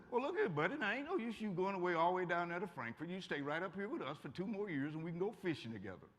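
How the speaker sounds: gentle, folksy Appalachian father coaxing his son to stay; Appalachian daddy. Retold or imitated. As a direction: imitate a Southwest Virginia dad in a mild Appalachian accent. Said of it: "That's the way my daddy talked".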